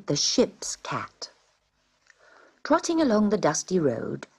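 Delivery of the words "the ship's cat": a slow, breathy whispered subtitle. A narrator's reading. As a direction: whisper it slowly. Title whispered slowly.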